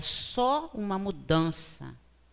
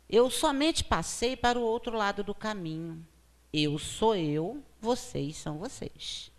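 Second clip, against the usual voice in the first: reading a prayer; 2 semitones higher than usual. Acted. Speaker reading a consoling prayer to her audience, heartfelt. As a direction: read it aloud like a comforting prayer. Ele diz assim.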